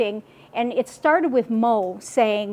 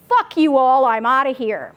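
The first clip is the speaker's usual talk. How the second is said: mock defiant yell; 4 dB louder than usual. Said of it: "get ready, swear words are coming".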